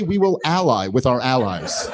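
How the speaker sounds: slow, chuckling rewording of her line; lightly laughing parody; mock paraphrase, laughing. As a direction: say it slowly, laughing at how empty it is. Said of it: "You might as well say".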